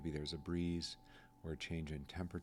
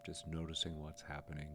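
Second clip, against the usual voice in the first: calm, measured guidance with long pauses; guided meditation; 3 dB quieter than usual. Acted. Guide invites listeners to relax into the moment, calm guided meditation. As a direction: let each phrase settle before the next.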